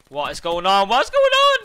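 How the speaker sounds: from loud to a high screaming shout; rising shout. Real, not acted. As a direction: build the question into a scream.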